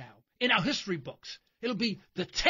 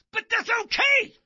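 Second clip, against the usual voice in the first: loud, high sarcastic shrug; sarcastic approval; 11 semitones higher, 8 dB louder than usual. Acted. To his viewers about the wars, a loud sarcastic okay. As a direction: sneer it out like it's fine.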